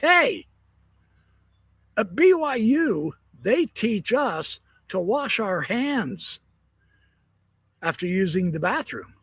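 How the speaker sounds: lightly voiced smug student; smug BYU guy. BYU guy calling out to the Utah State guy, smugly. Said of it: "calls out to him".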